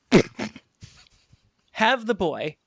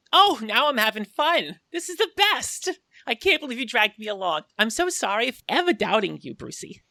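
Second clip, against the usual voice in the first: gleeful Harley voice; 3 semitones higher than usual. Acted. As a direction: squeal with delight. Voices Harley thrilled in the minecart.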